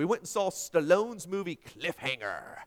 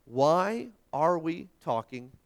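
ordinary talk

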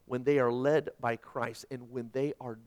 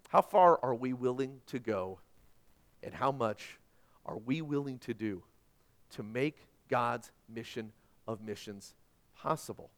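reflective sermon. Acted. Preaching challenge.

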